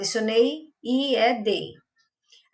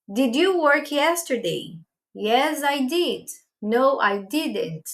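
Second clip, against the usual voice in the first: very slow English question and answers; slow model dialogue; much slower than usual. Shown as a demonstration. Teacher models the question and short answers for students, very slow. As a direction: drill it slowly for learners. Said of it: "vou usar também o did na resposta".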